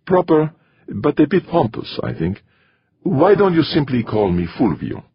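high-pitched, courteous priest character; a priest kindly waving away formality; genial monsignor. A narrator's reading.

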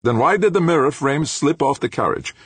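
high-pitched, demanding professor. A narrator's reading. Professor questioning why the mirror slipped, demanding. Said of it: "Ulrich demanded".

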